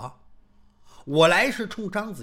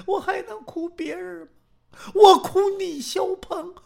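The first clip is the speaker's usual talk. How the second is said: high, tearful woman's plea; weeping woman tells Xiao Peng she mourns him; crying woman; 11 semitones higher, 4 dB louder than usual. Acted. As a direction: weep it out as the grieving woman. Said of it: "这女子这才哭哭啼啼的".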